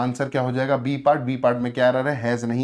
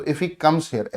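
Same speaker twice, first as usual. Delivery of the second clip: very slow, each word laid out; dictating the corrected line to students; slow model sentence; 4 dB quieter, much slower than usual. Shown as a demonstration. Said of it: "ऐसा हम लोग कर देंगे".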